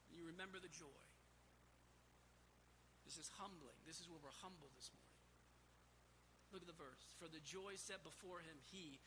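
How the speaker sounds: low, soft, reflective preaching; humbled reverence. Real, not acted. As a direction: drop low and soft, letting the verse humble you. Preacher turns humbled over the verse.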